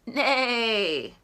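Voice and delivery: drawn-out mock neigh; horse neigh. Reviewing the sounds, mock neigh. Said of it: "let's see if I got the sounds right".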